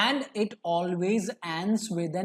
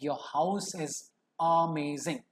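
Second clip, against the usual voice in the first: awe; 3 semitones lower, 3 dB quieter, slower than usual. Shown as a demonstration. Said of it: "I am in awe".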